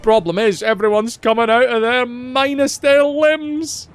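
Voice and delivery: lively Scottish brogue; Scottish accent. Acted. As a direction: do a hammed-up Scottish NPC. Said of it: "the entirely accurate Scottish accent".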